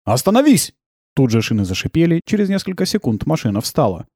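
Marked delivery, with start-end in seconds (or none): 0.0-0.7 shouted order. Acted.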